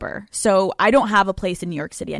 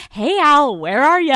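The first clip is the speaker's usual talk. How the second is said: a touch higher, breezy check-in as a therapist; lightly voiced therapist; 4 semitones higher, 3 dB louder than usual. Therapist greeting her client on a phone call, lightly voiced. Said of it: "She's gonna say".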